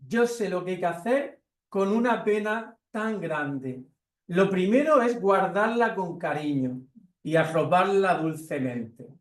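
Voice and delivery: put-on little bear explaining to the baby, slow and high; tender little bear. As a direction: soothe the crying baby like a gentle little bear. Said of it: "Esto le está diciendo la osita".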